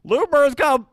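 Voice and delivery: high squawky bird voice; emu voice. Acted. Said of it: "and you hear, like".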